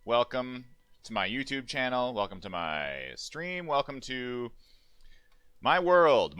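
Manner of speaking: showman intro, rising and falling; big announcer welcome; booming sing song welcome. Pretend. Showman stream opening.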